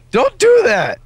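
high, loud frightened scolding; startled protest. Real, not acted. Player shaken by a jump scare, startled protest. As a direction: cry out after a scare.

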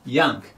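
"ヤング" with ヤ kept short; short popped vowel. Shown as a demonstration. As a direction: give "ヤング" a quick burst on ヤ. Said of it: "弾ける". (「ヤング」のヤを弾けるように)

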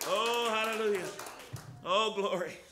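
loud fervent hallelujahs; praise shout. Real, not acted. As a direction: shout it out in worship. Preacher erupting in praise.

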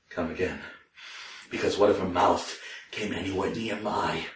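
low, soft, uneasy aside; hushed confession. Acted. Storyteller confessing nervous desire for the fanged woman, low and hushed. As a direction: drop right down, as if confiding it. Aroused narrator dreading her mouth.

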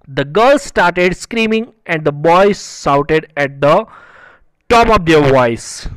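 very slow, word-by-word textbook reading; read-aloud lesson text. Acted. Teacher reading a story line to students, slow deliberate read-aloud. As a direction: read it out slowly, stretching each word.

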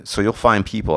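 ordinary talk, nothing marked

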